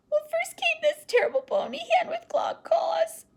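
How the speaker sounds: put-on high, breathless child's whisper; scared whisper. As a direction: whisper it as if the monster could hear. Child describes the monster.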